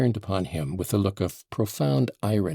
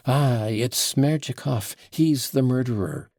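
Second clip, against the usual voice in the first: mock shout; 5 semitones higher, 4 dB louder than usual. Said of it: "shout with all my might".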